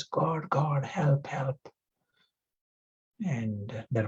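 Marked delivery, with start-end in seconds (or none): 0.0-1.6 unvoiced, pleading whisper; desperate whisper. Falling man clinging to a branch, desperate whisper. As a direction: breathe a frightened plea for help.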